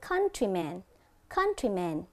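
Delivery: "Countryman" with COUN stressed; "Countryman" said as COUN-try-man; stress on first syllable. Shown as a demonstration. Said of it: "dấu nhấn cũng nằm ở âm thứ nhất".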